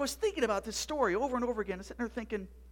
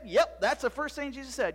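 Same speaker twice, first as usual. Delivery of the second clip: matter-of-fact yes, falling at the end; firm confirmation; 3 semitones higher, 3 dB louder than usual. Acted. Zeb answering his doubting friend, firm. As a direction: confirm it with a settled fall.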